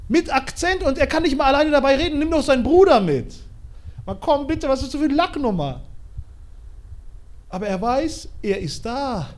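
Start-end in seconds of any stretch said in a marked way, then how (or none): 0.1-5.8 higher, sneering ruler; mock the stammerer; scornful pharaoh. Pharao lästert über Mose. (Pharao höhnt, etwas höher)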